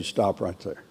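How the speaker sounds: firm but quiet. Shown as a demonstration. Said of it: "you need to say".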